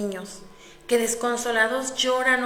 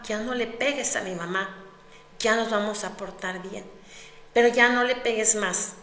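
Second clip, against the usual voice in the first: pleading. Acted. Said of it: "suplicando desgarradoramente".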